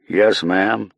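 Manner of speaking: put-on clipped American guard's reply in an American accent. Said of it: "he answered in an American accent".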